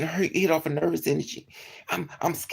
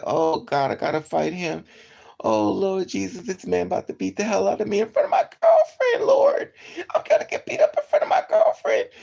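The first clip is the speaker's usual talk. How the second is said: terrified pleading; 5 dB louder than usual. Retold or imitated. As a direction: beg the Lord, near tears. Praying in fear before fight.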